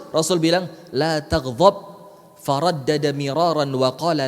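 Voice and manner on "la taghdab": a patient, drawn-out warning; slow emphatic advice. Retold or imitated. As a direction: stretch out La taghdab slowly, every syllable weighted. Prophet repeats the advice a third time. (nasihat pelan dan tegas)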